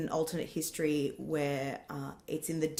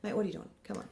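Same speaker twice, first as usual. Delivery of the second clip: disappointed cricket coach; 7 dB quieter, much faster than usual. Retold or imitated. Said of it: "like a disappointed cricket coach".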